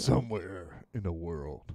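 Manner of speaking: low, drawn-out radio DJ voice. Shown as a demonstration. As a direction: drop low and stretch it like a radio host. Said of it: "Can I do my radio voice?".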